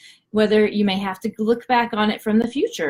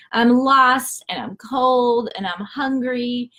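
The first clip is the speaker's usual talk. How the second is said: slow self-pity; 3 semitones higher, slower than usual. Retold or imitated. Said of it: "feeling really sorry for himself".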